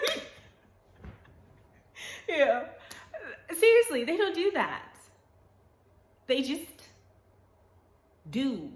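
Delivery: high, loud laughing. Real, not acted. Amused at her own ant accent, she laughs loudly and high. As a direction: crack up at yourself.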